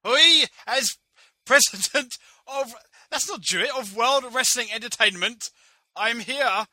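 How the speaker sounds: put-on high, loud Jewish accent with oi; a loud, high stage Jewish accent; hammed-up Jewish accent. President at press conference, hammed-up Jewish accent. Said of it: "what kind of a voice do I do for this guy? Jewish?".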